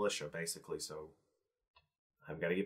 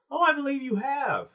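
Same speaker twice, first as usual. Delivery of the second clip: much higher and louder, announcing to the crowd; 7 dB louder than usual. Acted. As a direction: boom it out so the whole crowd hears. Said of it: "says it very loudly".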